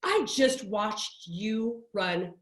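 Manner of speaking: a hint of a prim old lady telling off her friend; old lady's complaint. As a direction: let the old lady finally speak up about it.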